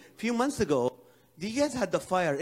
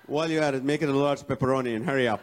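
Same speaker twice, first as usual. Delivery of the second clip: pushy pizza order; 4 semitones lower, faster than usual. Pretend.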